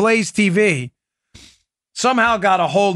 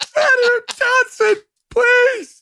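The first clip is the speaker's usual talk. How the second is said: mock whining plea; slower than usual. Host mimicking the anchor begging the senator, shrill mock whine. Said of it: "I'm waiting for him to go".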